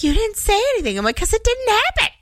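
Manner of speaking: trying to talk through the giggles; giggly. Real, not acted. Quoting staff, giggling.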